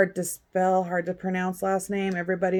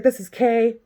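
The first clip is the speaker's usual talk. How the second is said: higher, louder, worked-up rant; loud upset Kay; 5 semitones higher, 5 dB louder than usual. Retold or imitated. Imitating Kay ranting at the detective, louder. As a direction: rant it hot and fast like someone furious. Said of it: "she's like".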